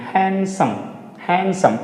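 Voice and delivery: हैंडसम said as "hensum", no d; silent d. Shown as a demonstration. Teacher repeating the correct handsome for the class. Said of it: "डी को pronunciate नहीं करेंगे".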